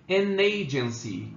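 slow "An agency", the N opening the next syllable; N linked to A. Shown as a demonstration. Teacher showing linking to students, "An agency" joined as "a-nagency". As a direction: run "An agency" together as "a-nagency". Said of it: "Eu junto esse N com A ali".

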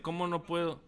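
usual speaking voice

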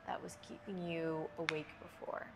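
unhurried yoga breathing cues with long pauses; measured, spacious yoga nidra instruction; guided meditation. Real, not acted. Leads yoga nidra breathing for sleep.

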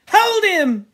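high, loud command; frenzied shout. Acted. Boys grabbing Robert in the game, frenzied shout. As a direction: yell it to the pack.

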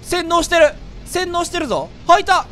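loud excited yelling; shouting. Real, not acted. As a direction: shout it out at the screen. Shouting at game events.

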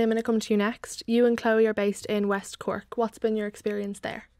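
ordinary talk

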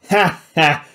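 loud mad "ha, ha"; demented laugh. Acted. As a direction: laugh it out like a cook gone mad. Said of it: "Vlad laughed dementedly".

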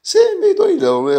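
high-pitched, loud mocking imitation; exaggerated high voice quoting someone; amused man's remark. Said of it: "O cara começou a rir, ele falou assim".

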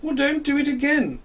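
wag a finger with your voice; stern sun. Acted. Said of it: "said the sun".

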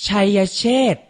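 ชัยเชษฐ์ said carefully as chai-ya-chet; careful teaching read of ชัยเชษฐ์; pronunciation model. Shown as a demonstration. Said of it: "ออกเสียงพร้อมๆพี่ไทยให้ถูกต้อง".

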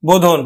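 বোধন said carefully; teacher models বোধন; pronunciation demo. Shown as a demonstration. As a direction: say বোধন as bo-dhon. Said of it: "উচ্চারণ করলাম".

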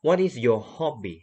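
very slow What is your hobby; slow model question. Shown as a demonstration. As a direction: read it word by word slowly. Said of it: "A จะเป็นคำถาม". (ครูอ่านคำถามช้าๆ ให้นักเรียนฟัง)

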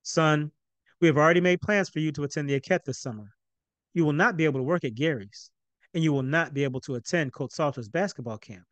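firm, measured father's ruling; slow, deliberate. Acted. Stern father denies son's summer plans. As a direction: lay it down word by word. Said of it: "spoke slowly and deliberately".

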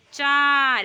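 loud, drawn-out number for the class; loud counting. Shown as a demonstration. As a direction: call the count out strongly. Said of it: "जोरात बोलायचं".

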